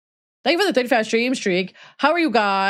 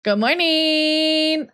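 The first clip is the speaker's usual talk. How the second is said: drawn-out good morning; 4 semitones higher, much slower than usual. Acted. Drawn-out stretched greeting.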